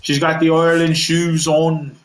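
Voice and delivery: mock-Irish "Ireland", opening on "oy"; attempted Irish accent. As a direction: put on a half-hearted Irish accent for "Ireland". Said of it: "I can't do an Irish accent".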